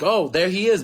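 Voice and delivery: imitated principal's sudden exclamation; imitated excited noticing. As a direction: pipe up as if just spotting someone. Principal spots the boy arriving.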